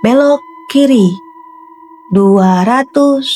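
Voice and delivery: glitching robot. Shown as a demonstration. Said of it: "Patah-patah ya suaranya".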